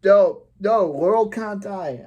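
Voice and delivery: loud high cry of protest; shocked outburst. Real, not acted. Reacting to Laurel being stabbed, loud protest. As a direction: yell out in real dismay.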